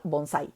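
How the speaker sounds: bonsai with the weight on sai; stress on last syllable. Shown as a demonstration. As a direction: say bonsai, leaning on the final sai. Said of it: "La sílaba tónica de bonsai es sai".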